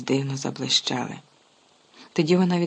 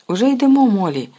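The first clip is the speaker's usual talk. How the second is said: shouted reply, much higher and louder; calling back; 8 semitones higher, 9 dB louder than usual. Acted. Father calling back to his wife, loud shout. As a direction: shout back across the platform. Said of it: "гукнув містер Візлі".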